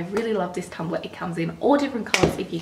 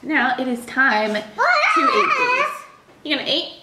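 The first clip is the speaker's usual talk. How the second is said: laughing high; 7 semitones higher, 6 dB louder than usual. Real, not acted. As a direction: coo it through laughter. Laughing to baby.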